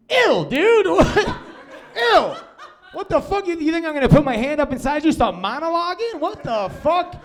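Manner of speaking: high, loud comic outrage; mock disgust. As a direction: recoil with a high-pitched yelp. Acts disgusted reaction to girl's remark.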